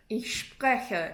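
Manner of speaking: "Ich spreche" with the R swallowed at the back of the throat. Shown as a demonstration. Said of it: "it's all back here".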